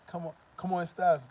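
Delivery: hammed-up gringo retry; mocking gringo. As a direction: push the foreigner's greeting again. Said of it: "they just".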